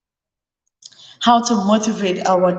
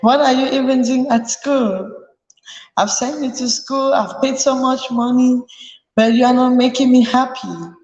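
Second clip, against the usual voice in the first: a scolding parent, pitched higher; nagging a child about school fees, mildly raised; mock shouting parent; 3 semitones higher than usual. Parent scolding child over school, lightly mock angry. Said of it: "Not just shouting".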